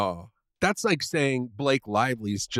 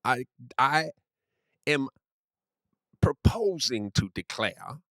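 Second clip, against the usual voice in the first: pompous Southern gentleman accent, lightly played. Friend hams up a Southern gentleman for his buddy, Southern accent lightly played. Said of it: "I must use this voice".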